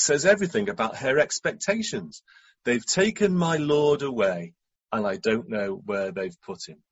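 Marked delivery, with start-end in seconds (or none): 2.6-6.8 understated grief, drooping at the end; pained. Acted. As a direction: let some pain into it, sinking low. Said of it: "You can hear the pain".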